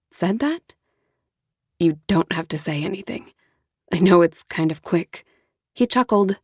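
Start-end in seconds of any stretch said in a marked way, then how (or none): 1.8-5.2 Jonah, patient and gentle. Acted. Jonah voiced.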